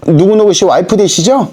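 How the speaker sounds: shrill-voiced mistress. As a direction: lightly mimic the mistress's biting phone greeting. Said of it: "앙칼진 목소리로".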